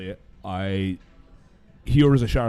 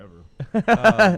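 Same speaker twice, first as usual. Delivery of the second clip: slow drawn out; 9 semitones higher, 7 dB louder than usual. Real, not acted. Eager knowing reply.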